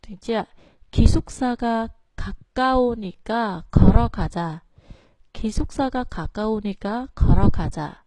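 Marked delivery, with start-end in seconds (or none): 0.9-4.6 Ki, 가까우니까 and 걸어가자 each begun low; low phrase starts. Shown as a demonstration. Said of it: "phải đọc thấp xuống". 5.3-8.0 기숙사가, 가까우니까, 걸어가자 each begun low; low phrase starts. Shown as a demonstration. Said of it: "phải đọc thấp xuống".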